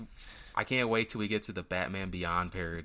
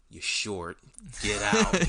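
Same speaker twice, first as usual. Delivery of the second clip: angry landlord; 3 dB louder, much slower than usual. Retold or imitated. Landlord voiced.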